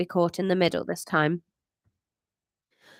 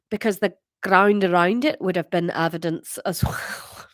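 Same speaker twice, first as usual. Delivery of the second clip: put-on shaky-footed Scottish accent; 3 semitones lower than usual. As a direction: wobbly attempt at a deeper Scottish accent. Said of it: "she was Scottish".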